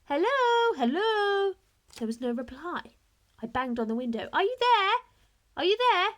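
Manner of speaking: loud, high calls to an empty house; calling out. A narrator's reading. Boy calls out loudly at the empty house. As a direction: shout into the silent house. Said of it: "I called out".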